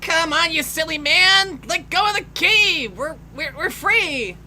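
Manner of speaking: high, loud urging; hammed-up urgent plea; urgent calling. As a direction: yell at him to let go. Voicing character urging him.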